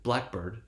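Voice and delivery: "blackbird" with "black" strongest; compound stress. Shown as a demonstration. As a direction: stress "black", keep "bird" secondary in "blackbird". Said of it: "syllable that follows the primary stress".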